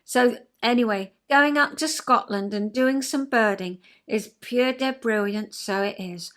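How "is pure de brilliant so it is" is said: light put-on Scots catchphrase; playful attempt at Scottish dialect; amateur Scottish accent. Shown as a demonstration. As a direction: say it with a Scottish lilt. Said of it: "the only words that I can say".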